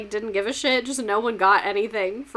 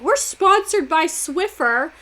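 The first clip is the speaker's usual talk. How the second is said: mock Biden ad; 4 semitones higher, slower than usual. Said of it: "he'd be like".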